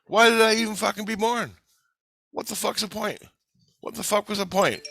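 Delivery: put-on dead kid railing to friends, high and pained; anguished complaint. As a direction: cry out at the pointlessness. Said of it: "I go".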